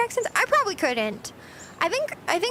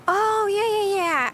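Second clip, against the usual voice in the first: acted agreement; 4 semitones higher, slower than usual. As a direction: agree emphatically, starting higher and tailing down. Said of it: "like when you're like".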